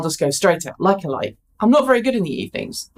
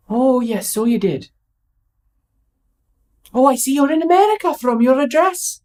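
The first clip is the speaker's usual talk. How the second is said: put-on Welsh accent; 4 semitones higher than usual. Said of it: "Bad Welsh accent".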